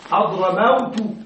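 حضرموت drawn out slowly as one word; teacher stretching حضرموت slowly. Shown as a demonstration. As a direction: spell out حضرموت slowly, syllable by syllable. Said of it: "والحركات تكون في النهاية".

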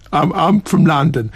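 lightly put-on Cockney accent. Shown as a demonstration. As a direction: try a London East End Cockney. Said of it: "they speak like that".

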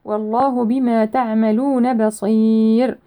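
measured tajweed recitation; Quran recitation. Shown as a demonstration. Teacher reciting a verse for students, measured tajweed. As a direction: recite with held long vowels and precise consonants.

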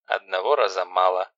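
stern sister giving orders; ruthless. Acted. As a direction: lay down the law without pity. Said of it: "безжалостно".

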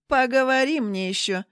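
loud contemptuous snap; snapping. Acted. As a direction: spit it back with disdain. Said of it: "скривилась Рита".

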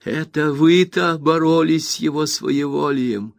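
high, slow scornful exclamation; exclaim in fury. A narrator's reading. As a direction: throw it in her face. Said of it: "воскликнула она". (Роза с сарказмом кричит на мать)

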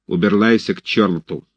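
убирайся said as уберлайся, r turned to l; картавым голосом: уберлайся with a burred r. A narrator's reading. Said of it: "своим картавым голосом".

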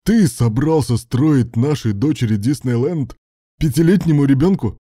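indignant outburst. A narrator's reading. Husband confronting spouse over the gift, indignant and loud. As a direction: demand it in disbelief.

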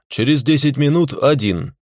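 firm, stress on минут; insistent. Acted. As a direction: lay down the terms firmly. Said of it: "Двадцатый раз повторять не буду". (настойчиво, с нажимом)

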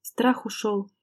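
plain reading voice

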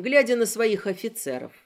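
plain reading voice

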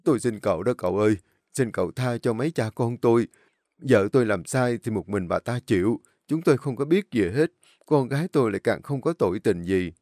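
put-on fast, pleading old father; begging. Father begs the boss to spare his daughters, fast pleading. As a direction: beg for mercy, hands clasped. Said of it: "chắp tay vào van xin".

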